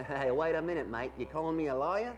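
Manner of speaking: offended fake Aussie; indignant mock-Australian; ridiculous Australian accent. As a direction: protest in a badly faked Australian accent. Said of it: "your accent sounds completely ridiculous".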